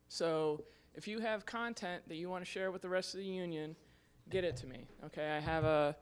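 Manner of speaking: slightly winded from running; out of breath. Real, not acted. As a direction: talk while catching your breath. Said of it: "I'm out of breath from running up here".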